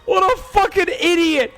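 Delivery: high, laughing mockery; laughing gloat. Real, not acted. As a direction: cackle the insult out. Gloating over opponent's angry reaction.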